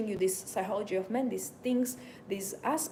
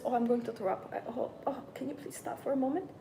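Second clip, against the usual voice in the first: mock queasy plea with little groans; pretend nausea; 3 semitones higher than usual. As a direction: act about to be sick. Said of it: "I was like this when".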